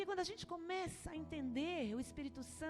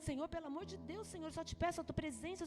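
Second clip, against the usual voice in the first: hushed pleading prayer building to a loud cry; desperate prayer; 4 semitones higher, 6 dB louder, faster than usual. Retold or imitated. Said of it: "Comecei a chorar".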